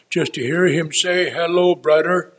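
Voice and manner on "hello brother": put-on a light Russian Mennonite accent on a warm greeting. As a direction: greet him like Henry Dirksen, with a hint of the Russian Mennonite accent. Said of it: "that's the accent that those people have".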